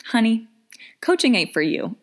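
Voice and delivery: a mock-pitying sigh, then the verdict; sassy honey. Real, not acted. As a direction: let her down with a sigh and sass. Blunt sassy verdict after sigh.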